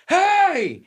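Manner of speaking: very high, drawn-out yell; indignant shout. Retold or imitated. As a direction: holler to be let out of the garage. Calling out, locked in garage.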